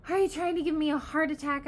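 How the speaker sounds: high, loud, startled scolding; indignant outburst. Acted. Startled girl glaring at Peter, indignant outburst. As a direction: snap it at the one who scared you.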